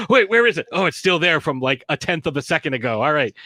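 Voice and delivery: a sudden fright, then relief; mock panic. Checking his pocket for the ring, mock panicked.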